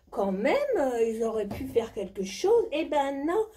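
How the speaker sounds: high, breathy posh diva voice; hammed-up high society diva; rich diva character. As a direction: play a spoiled jet-set lady bragging. Plays a rich Dubai diva.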